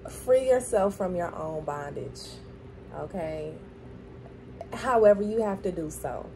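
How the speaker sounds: talking with a grill in; words shaped round a metal grill; wearing teeth grill. Real, not acted. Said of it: "That's why I got my, my grill in".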